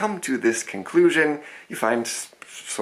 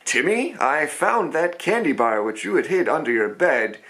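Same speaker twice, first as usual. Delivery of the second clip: higher, stern mock parent lecturing a kid; scolding parent; 5 semitones higher than usual. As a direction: play a strict mom catching Timmy with hidden candy. Parent scolding child Timmy.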